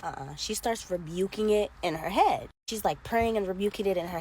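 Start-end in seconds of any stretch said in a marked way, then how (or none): 0.0-0.4 hushed, low uh-uh; quiet refusal. Retold or imitated. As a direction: refuse it under your breath. Harley refusing.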